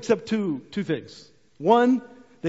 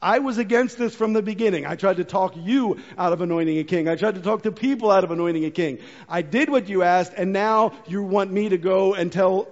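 mock exasperated rant. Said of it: "I can imagine him being like".

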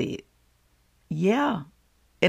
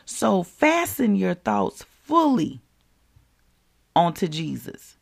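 raised, deliberate preaching to the listener; direct, emphatic address; 2 semitones higher than usual. Shown as a demonstration. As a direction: pause before 'onto Jesus'. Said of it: "let me say it to you like this".

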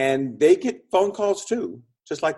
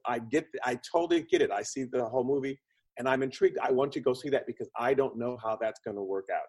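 intrigued audience; 7 dB quieter, faster than usual. Retold or imitated. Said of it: "makes the audience go".

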